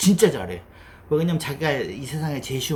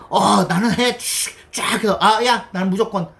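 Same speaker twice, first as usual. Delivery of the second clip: mock cocky expert; 7 semitones higher, 6 dB louder than usual. Mocking overconfident experts.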